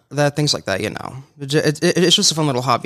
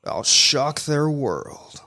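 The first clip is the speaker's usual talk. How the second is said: slow, menacing whispered threat; villain whisper; much slower than usual. Shown as a demonstration. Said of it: "give us a villain".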